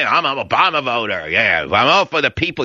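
a lightly voiced mock Obama voter; mock liberal voter. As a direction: sneer lightly at the self-righteous voter. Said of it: "And then they".

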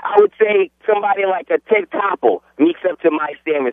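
thick fake New York accent. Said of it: "you're putting on a fake New York accent".

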